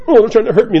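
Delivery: hammed-up hurt complaint; mock wounded. Criticized person feeling attacked, mock wounded.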